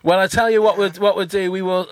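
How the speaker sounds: usual speaking voice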